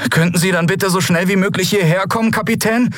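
put-on high, worried young voice; high-pitched, distressed request; deeply troubled. A narrator's reading. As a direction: plead politely with a heavy heart. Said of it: "Miko klang tief bedrückt".

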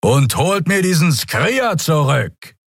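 slow, high command; commanding order. Acted. Lieutenant ordering his men to fetch Keru. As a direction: demand the creature back.

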